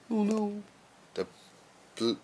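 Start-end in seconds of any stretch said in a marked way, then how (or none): 0.0-0.6 mock fright. Monster frightened by Ollie.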